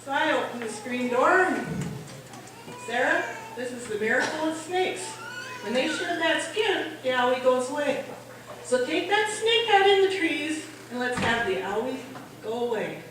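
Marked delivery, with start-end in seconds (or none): 2.9-13.0 put-on calm, patient explaining to a child; measured, reassuring mom talk; gentle parent. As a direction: soothe a little kid sweetly. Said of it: "get down to the child's level".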